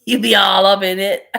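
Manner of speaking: loud, amused words through laughter; laughing loudly. Real, not acted. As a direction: tease them while cracking up. Laughing at imagined glitter mess.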